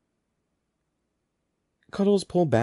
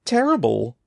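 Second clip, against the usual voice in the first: loud, raised cry of dismay; 4 semitones higher, 5 dB louder than usual. A narrator's reading. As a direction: exclaim it loudly in distress. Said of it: "she cried".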